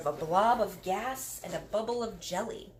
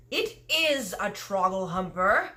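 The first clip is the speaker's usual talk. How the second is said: louder, slow exasperated giant; 2 semitones higher, 6 dB louder than usual. Acted. Giant correcting Sophie, exasperated louder insistence. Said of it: "cried the exasperated B F G".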